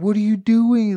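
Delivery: panicked, freaked-out outburst, very high pitched. Retelling how Nate reacted to seeing the speaker with a beer, imitating Nate freaking out. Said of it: "starts freaking out".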